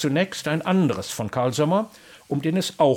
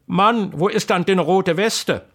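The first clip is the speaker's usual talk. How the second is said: higher, slower alarmed cry; wife cries out about the missing vest; startled wife; 5 semitones higher, 5 dB louder than usual. Acted. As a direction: gasp it out in alarm. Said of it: "ruft mit erschrockener Geste".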